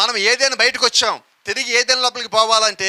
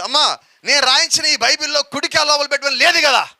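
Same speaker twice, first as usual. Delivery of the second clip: higher, louder questioning Jesus; 5 semitones higher, 4 dB louder than usual. Retold or imitated. Jesus asks the woman about the Bible, higher and louder. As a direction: ask it up high, like a puzzled Lord. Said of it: "యేసుక్రీస్తు అన్నాడు".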